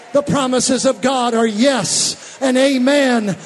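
preacher crying yes at full force; preaching climax. Acted. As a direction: hammer each yes with joy.

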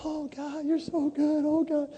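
high, hushed, tearful praise; retelling crying in worship, soft and high. Retold or imitated. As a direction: breathe it out to God, near tears. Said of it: "I'm crying".

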